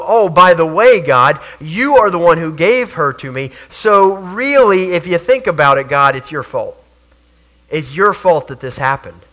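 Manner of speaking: loud, indignant Adam shifting blame onto God; blaming Adam. Acted. Adam protesting to God that it's his fault, loud and indignant. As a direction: throw the blame back at God.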